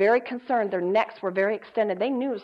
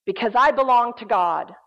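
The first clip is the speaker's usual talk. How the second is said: bold, defiant retort, each 'I dare' punched louder; rising strength; 5 dB louder than usual. Retold or imitated. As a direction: stand up to the demon, imitating her firm defiance. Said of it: "A rising of strength rises within her".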